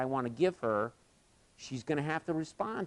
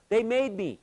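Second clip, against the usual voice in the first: put-on a higher, small voice of a frightened kid; imitating scared boy; 10 semitones higher, 4 dB louder than usual. Frightened boy on the cable answers the coach, high and small. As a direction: sound like a boy who wants down.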